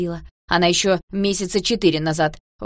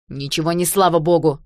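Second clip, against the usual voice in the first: tossed off angrily and louder; louder, irritated brush-off; angry retort; 8 dB louder than usual. A narrator's reading. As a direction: snap it back at him, cross. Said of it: "сердито бросил Борька".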